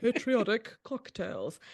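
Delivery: slow mock-patriotic slogan; drawn-out, proclaiming patriotic delivery. Shown as a demonstration. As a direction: demonstrate a put-on patriotic tone, drawing the words out. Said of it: "in exactly that tone".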